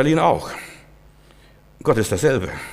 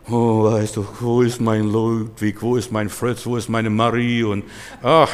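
mock lamenting; 2 semitones lower, slower than usual. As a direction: imitate someone pining for lost loved ones. Mimics mourners pining for dead. (gespielt wehklagend)

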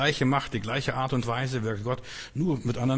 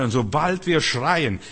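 emphatic louder; 3 semitones higher, 6 dB louder, slower than usual. Acted. Preacher stresses crying out.

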